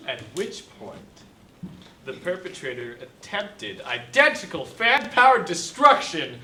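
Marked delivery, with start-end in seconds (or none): 2.1-6.4 loud, emphatic prosecutor; dramatic cross-examination delivery; lawyerly declaiming. Acted. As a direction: build to a punchy courtroom finish. Attorney declaiming in questioning.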